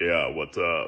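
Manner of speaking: put-on deep voice. Retelling answering a stranger who called them ma'am: imitating own deliberately lowered voice. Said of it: "I'll intentionally, like, lower my voice".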